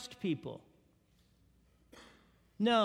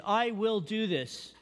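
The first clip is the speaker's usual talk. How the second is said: slow resolve; slower than usual. Retold or imitated. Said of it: "you just choose in volition".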